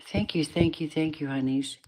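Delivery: soft unvoiced whisper of thanks. Real, not acted. Tired reader whispering thanks to her viewers. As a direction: breathe the thanks out quietly.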